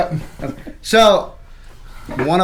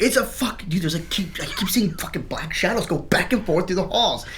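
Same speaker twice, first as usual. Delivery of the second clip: acting scared; 6 semitones higher than usual. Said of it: "acting all scared and shit".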